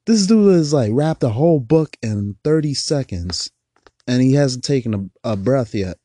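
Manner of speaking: loud laughing disbelief; amazed. Real, not acted. Amazed at rapper's breath.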